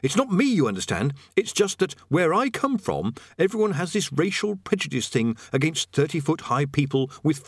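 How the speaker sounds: lightly voiced man backing out politely; Rincewind, awkwardly apologetic. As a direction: let them down with nervous tact.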